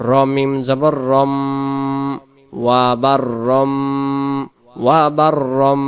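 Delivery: slow syllable by syllable spelling; ওয়া বার রম built up slowly. Shown as a demonstration. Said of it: "ছোট মিম ধরে পড়তে হবে".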